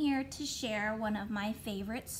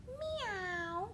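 high, soft mock meow; a silly wrong cat sound; 7 semitones higher, 6 dB quieter than usual.

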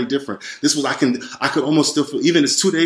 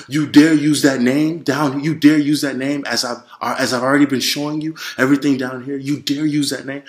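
mock intimidating roar; 3 semitones higher than usual. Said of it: "a roaring, yelling, a very intimidating, like, voice".

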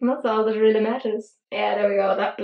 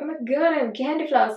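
lightly voiced excited little raccoon, a bit higher; mock excited raccoon; 4 semitones higher than usual. Vlogger voicing a raccoon with candy floss, mock excited. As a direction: play a delighted raccoon with its treat. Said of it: "they're all excited and they're like".

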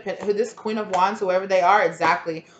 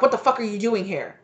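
startled, sharp and a bit higher; mock angry confrontation; 3 semitones higher than usual. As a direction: catch an intruder in your bedroom, half-acted. Mistress confronted in bedroom.

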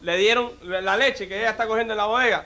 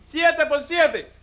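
high, very slow quiz question; executioner quizzing; 5 semitones higher, much slower than usual. Acted. Executioner sets the condemned man another sum, slow and high. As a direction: spell out the sum for him. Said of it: "Dice el verdugo".

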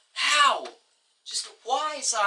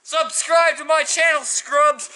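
louder retake of the outro; 4 dB louder than usual. Shown as a demonstration. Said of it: "oh, wait".

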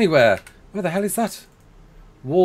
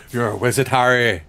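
Hagrid impression; 3 semitones lower than usual. Streamer quoting Hagrid to a viewer who looks like a wizard, in a mock Hagrid voice. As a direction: rumble it like the big gamekeeper breaking the news. Acting out Harry Potter scene.

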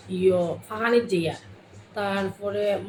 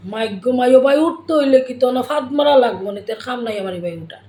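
louder Sylheti teasing, fast at the end; mocking Sylheti retort, louder; Sylheti banter; 2 semitones higher, 5 dB louder than usual. Shown as a demonstration. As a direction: needle a friend in Sylheti. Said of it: "Sylheti হলে কিতা কইবা".

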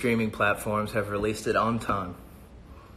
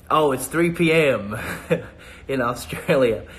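laughing; 2 semitones higher, 3 dB louder than usual. Real, not acted. Surprised at the time, laughing.

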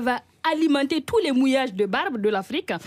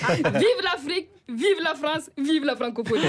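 laughing cheer; 2 semitones higher than usual. Acted.

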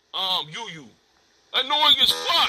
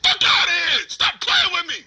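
angry shout; 3 semitones higher than usual. Real, not acted. Heated argument with Dia.

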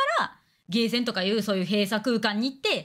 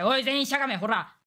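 mock bossy orders. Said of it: "とか言って、みんなしゃがませて".

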